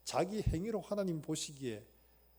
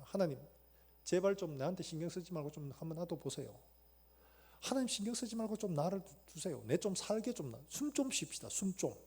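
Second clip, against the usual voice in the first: softer, breathless begging; exhausted plea; 3 dB quieter than usual. Retold or imitated. Believer worn out, quietly begging God for rest. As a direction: plead for room to breathe. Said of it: "이런 고백합니다".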